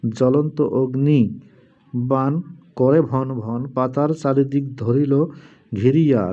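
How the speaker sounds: slow, measured chant-like reading; mantra recitation. Shown as a demonstration. Reciting a mantra to viewers in a slow chant. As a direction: intone the charm slowly, word by word.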